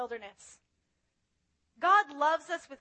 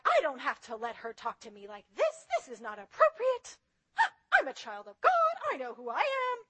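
1 indignant inner voice. Retold or imitated. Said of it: "everything inside of me is like".

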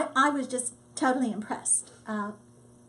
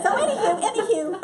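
laughing; 8 semitones higher, 4 dB louder, faster than usual. Real, not acted. Laughing after mock brag.

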